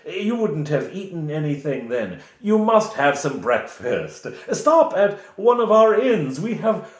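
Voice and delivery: lightly voiced fawning village official; hosting Reeve. The Reeve inviting the party to breakfast, lightly fawning.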